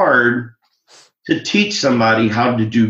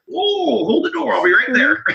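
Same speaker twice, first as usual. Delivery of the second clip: excited; 12 semitones higher than usual. Retold or imitated. Retold eager reaction.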